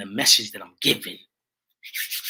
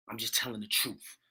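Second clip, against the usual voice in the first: same line dropped much softer, almost to himself; softer repeat; 9 dB quieter than usual. Real, not acted. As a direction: let it fall away quietly. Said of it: "'cause I'm just telling the truth".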